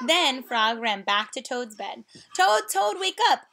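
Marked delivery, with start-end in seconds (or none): 2.4-3.5 much higher, loud shout of the name; loud wake-up call. Acted. Frog wakes Toad loudly.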